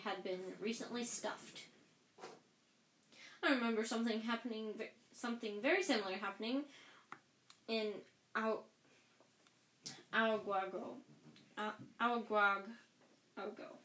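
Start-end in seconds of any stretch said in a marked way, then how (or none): 3.4-13.8 a vain man gabbling, then fumbling the place name; Lockhart, rushed. Acted. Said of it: "said Lockhart".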